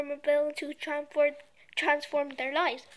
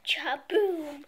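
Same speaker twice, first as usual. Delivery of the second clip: shouted sound effect. Acted. Explosion sound effect read.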